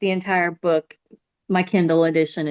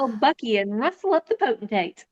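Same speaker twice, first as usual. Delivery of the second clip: put-on posh young dandy; 5 semitones higher than usual. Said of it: "I like that it's very serious".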